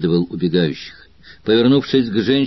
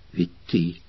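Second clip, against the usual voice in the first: trembling whisper; 5 semitones lower, 7 dB quieter than usual. A narrator's reading. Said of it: "шепча дрожащим голосом".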